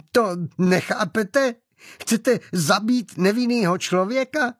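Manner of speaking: high, halting panicked plea; breathless, incoherent pleading. A narrator's reading. Woman shielding a man from a gunman, breathless panicked plea. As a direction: plead in broken bursts, stammering, pitch way up. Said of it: "dech se jí zrychlil tak, že nemohla mluvit souvisle".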